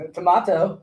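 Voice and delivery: drawn-out British "tomato"; British accent. Retold or imitated. Co-host mimicking the English woman, British accent. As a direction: put on an English accent for the word. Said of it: "the prototypical female English voice".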